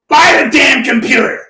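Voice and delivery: lightly voiced bossy mentor; a touch of exasperated command; mentor impression. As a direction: imitate a mentor giving an order. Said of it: "this is what he talks like".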